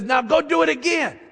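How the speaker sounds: high, emphatic order; commanding. Retold or imitated.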